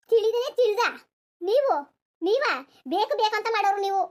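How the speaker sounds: a mild mock argument, voice rising; heated quarrel. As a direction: snap back in the family fight. In-laws argue back and forth.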